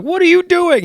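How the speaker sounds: shocked squeal of a question, acted out; alarmed disbelief. Woman alarmed at bullet removal.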